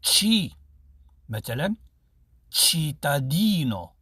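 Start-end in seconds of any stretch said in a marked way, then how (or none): 0.0-0.5 تشي pushed out sharply between the teeth, higher and a bit louder; pron. Shown as a demonstration. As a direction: hiss تشي through the teeth. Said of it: "تشي، ماشي تشي". (تشي من بين السنان)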